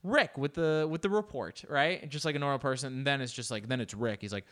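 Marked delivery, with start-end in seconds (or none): 0.0-1.6 a hint of a TV presenter; imitating news anchor. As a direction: drag out the handoff like a bored anchor. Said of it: "the journalist before, she's just kinda".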